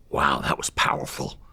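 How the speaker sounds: the judge murmurs it slowly, impressed; hushed awe. Retold or imitated. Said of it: "He goes".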